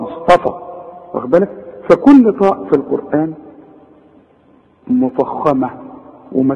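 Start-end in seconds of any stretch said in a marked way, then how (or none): 0.0-0.5 مصطفى with a heavy, emphatic ط. Shown as a demonstration.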